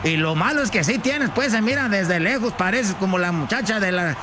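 flustered rural husband fretting aloud; exasperated country-man character, singsong; scolding ranchero husband. Acted. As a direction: scold your wife with embarrassed dismay. Plays her embarrassed ranchero husband.

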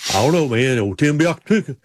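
hesitant, mumbled imitation of a driver; Sterling Marlin. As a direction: hem and haw through a light impression. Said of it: "Sterling Marlin".

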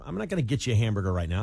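quick, offhand "get you" as "gitcha"; rapid casual talk with "get" said "git"; casual riffing "git". Shown as a demonstration. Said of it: "when you're just talking and riffing".

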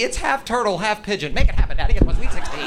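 mock bratty teen; demanding daughter. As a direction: insist like a spoiled brat. Girl demands from daddy.

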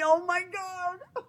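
squeaky high laugh through the words. Real, not acted. Host laughing at herself over Cesar Millan, laughing. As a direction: break into helpless laughter. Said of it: "laugh heard".

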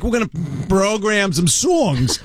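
laughing imitation. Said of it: "You're like".

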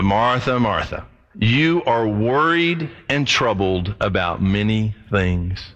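slow, tender rebuke spoken as Jesus; gentle Jesus voice. Acted. Jesus gently slowing down his busy friend, tender. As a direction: ease Martha down gently, slowly. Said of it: "I love it when he comes back, not Martha".

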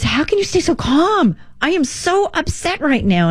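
high, anxious voice of an upset man; upset caller. Retold or imitated. Service manager asking Sue, high and fretful. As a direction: quote the worried caller up high. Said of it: "But he says".

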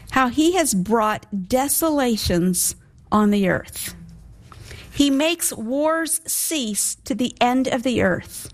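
slow, measured Bible reading; solemn scripture reading. Acted. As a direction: read the verses out slowly, phrase by phrase. Reads verses eight and nine.

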